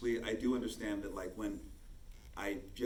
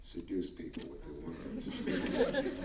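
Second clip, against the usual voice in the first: slow, lower, charming Victor voice; lower seductive voice; 4 semitones lower, slower than usual. Shown as a demonstration. Showing how he voices Victor Strand, low and slow seductive. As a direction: draw the listener in with words. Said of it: "go a little lower and a little deeper".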